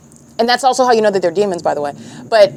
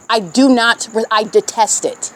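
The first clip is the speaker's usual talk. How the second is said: disgusted. Real, not acted. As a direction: let the sickness show in the voice. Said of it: "If you can't hear it in my vo".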